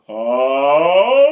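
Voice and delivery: a loud open sigh on ah; singers' sigh. Shown as a demonstration. Voice teacher showing how ladies sigh. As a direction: sigh out a big bright ah. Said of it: "the ladies go".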